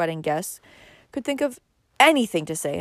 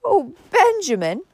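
high, louder soothing appeal; 11 semitones higher, 5 dB louder than usual. A narrator's reading. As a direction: plead soothingly with an uncle. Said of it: "said Cousin Georgiana soothingly".

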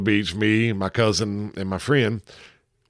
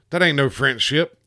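terrified; 5 semitones higher than usual. Acted. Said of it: "the captain screams in terrified French".

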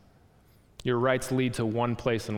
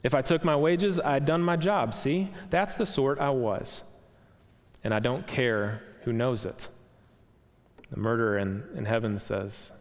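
lightly voiced blustering ghost; indignant ghost; 2 semitones higher than usual. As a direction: insist on your rights, a bit raised. Ghost argues for his rights.

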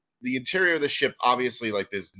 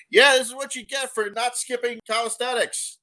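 Wilhelm voice; 12 semitones higher than usual. Acted. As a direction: bark it like a drill buddy. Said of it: "you hear Wilhelm go".

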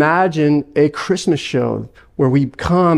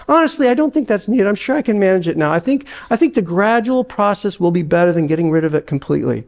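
a ghost scrambling for excuses; flustered ghost; 2 semitones higher, faster than usual. Acted. Ghost character.

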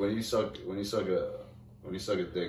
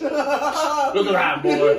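mock bossy woman; 11 semitones higher, 7 dB louder, much slower than usual. Mock character voice, laughing.

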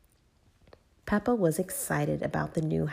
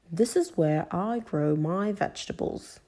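grandpa voice; 2 semitones higher than usual. Acted. Grandpa Pig speaking.

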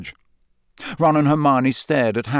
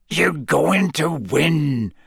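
Hagrid's growl; 3 semitones higher, much slower than usual. A narrator's reading. Hagrid reassuring Harry by the lake, slow rumbling growl. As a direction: growl it warmly like a big gamekeeper. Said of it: "Hagrid growled".

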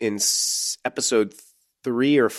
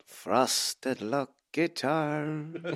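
laughing; 7 semitones higher, 4 dB quieter, much slower than usual. Pretend. Imagining Ashford singing slogan.

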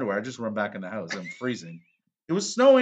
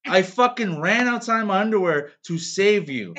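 retold angry outburst; 3 semitones higher, 4 dB louder than usual. Retelling how he yelled back at his wife, angry and loud. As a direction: blow up at her, half-acted fury. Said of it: "I go".

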